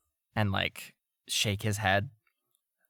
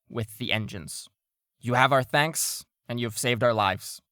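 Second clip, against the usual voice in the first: formal address; 3 semitones higher, 3 dB louder than usual. Acted. Shipmaster addresses the crew.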